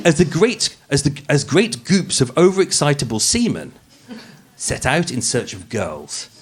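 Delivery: polished, posh narrator read; posh podcast voice. Acted. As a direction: read it like a true-crime podcast host putting on airs. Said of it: "the podcast voice".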